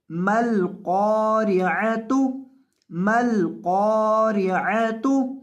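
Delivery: measured Quranic recitation, each word twice; slow recitation review. Shown as a demonstration. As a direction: recite slowly and clearly, word by word. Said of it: "अब तमाम अल्फाज को एक दफ़ा दोबारा देख लें". (धीमी तिलावत, दोहराते हुए)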